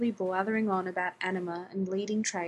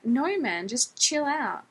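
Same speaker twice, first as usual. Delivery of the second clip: higher-pitched attempt to calm someone down; mild protest; 4 semitones higher, slower than usual. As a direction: plead lightly to defuse a fight. Retold plea to angry stranger.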